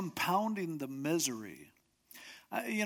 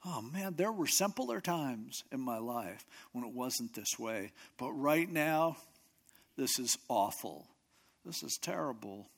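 nostalgic lament; 4 semitones lower, 4 dB quieter than usual. Retold or imitated. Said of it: "he's getting nostalgic".

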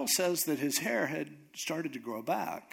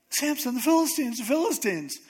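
high, loud wake-up cry; pitched-up mock warning shout; urgent alarm; 9 semitones higher, 5 dB louder than usual. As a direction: sound the alarm to rouse a sleeper. Acted alarm waking Samson.

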